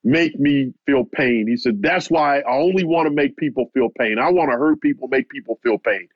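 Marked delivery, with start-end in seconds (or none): 0.0-1.5 slow, building mock anger; imitating a boxer's rising bitterness, drawn out; retold grudge, slowed and pressing; getting angry. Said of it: "he starts to get angry". 1.8-6.1 a hint of retold rage, pitched up; imitating a fighter venting his hurt; mild mock anger at the world; lashing out. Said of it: "lashing out at me".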